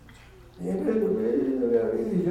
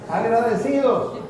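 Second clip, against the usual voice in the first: high, loud, slow drawn-out answer; call and response; 7 semitones higher, 6 dB louder, slower than usual. Acted. Preacher supplies the word to the congregation, loud and slow. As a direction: stretch out the word to lead the crowd. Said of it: "¿qué?".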